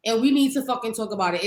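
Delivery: mildly heated, acted scolding; mock-upset, hitting the first words harder; telling them off with a touch of anger; mad and upset. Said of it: "I'm mad with y'all".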